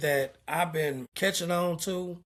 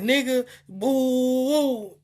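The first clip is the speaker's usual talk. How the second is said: mock angry taunt; 5 semitones higher, slower than usual. Coworker shouting through plexiglass.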